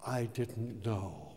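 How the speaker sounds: plead, voice near breaking; tearful prayer. Retold or imitated. Man on his knees crying out to God, tearful. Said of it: "I cried out".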